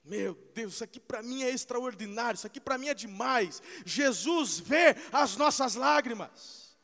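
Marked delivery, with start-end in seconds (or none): 3.9-6.8 slow, loud, high shout; slow preaching shout. Real, not acted. Preacher crying out to the congregation, slow and loud. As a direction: hammer each word out slowly.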